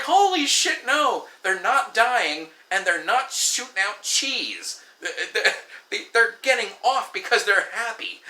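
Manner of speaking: high, loud, slowed-down protest; incredulous outburst. Retold or imitated. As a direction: shout your disbelief at a ridiculous claim. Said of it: "I'm like".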